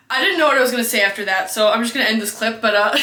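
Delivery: fast talk through giggles; laughing. Real, not acted. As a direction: rush it out while laughing.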